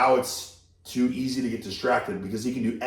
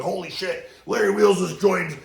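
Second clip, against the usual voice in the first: excited fans; 5 semitones higher than usual. Retold or imitated. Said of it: "They're like".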